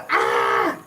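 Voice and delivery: drawn-out "aah" of exasperation; mock frustrated scream. Fed up with failed dentist calls, mock scream. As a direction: let out a mock cry of frustration.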